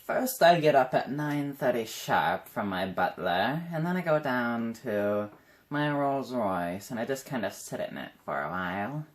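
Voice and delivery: slow, smug mock rich-vlogger voice; braggy rich vlogger. Mocking braggy quarantine routine videos, slow smug rich-person voice. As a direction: lay it on thick like a spoiled millionaire. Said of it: "Where it's like".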